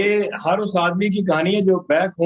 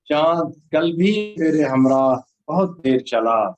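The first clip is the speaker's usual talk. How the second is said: solemn, measured poem delivery; stately nazm recitation; 3 semitones lower, slower than usual. Acted. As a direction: recite the nazm slowly to the audience.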